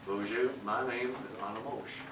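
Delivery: lightly voiced Southern accent; Anna Mosh. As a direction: introduce yourself with a hint of Southern accent. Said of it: "has a Southern accent".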